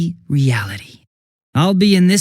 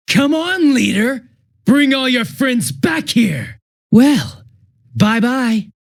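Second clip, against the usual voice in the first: higher, slow, shouted taunt; taunting call; 8 semitones higher, slower than usual. Acted. Villain daring the leader to bring friends, slow shouted taunt. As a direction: call it out slowly to goad him.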